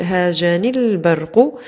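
slow هاجني البرق linked as haajanil-barqu; drawn-out scansion of هاجني البرق, ya dropped; elided ya. Shown as a demonstration. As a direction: join هاجني البرق through a held l. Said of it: "تحذف الياء في هاجني، فنقول".

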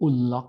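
"unlock" as oon-lock; British "oo" pronunciation. Shown as a demonstration. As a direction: say "unlock" with U as in "put". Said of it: "บางทีเขาก็จะออกเสียงแบบ". (ออกเสียง "unlock" เป็น อุนล็อก แบบอังกฤษ)

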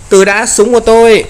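high, loud cry to hold off; panicked yelp. Real, not acted. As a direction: yelp out in sudden panic over the gun. Game character losing blood, panics. (kêu hoảng hốt, cao và to)

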